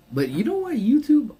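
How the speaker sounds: sudden high loud burst; excited. Real, not acted. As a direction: blurt it out excitedly.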